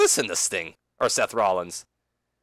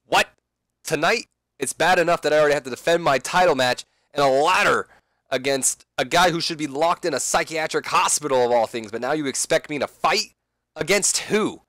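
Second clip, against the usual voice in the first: higher, louder indignant rant; outraged Seth; 4 semitones higher, 4 dB louder than usual. Acted. Seth protesting the main event, outraged. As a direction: complain in disbelief. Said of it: "And then Seth just".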